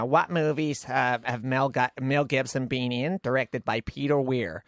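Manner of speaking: lightly imitated American quizmaster; American roommate. Roommate running a quiz, imitated American accent. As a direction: read out a quiz question in a mild American accent. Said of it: "she's American".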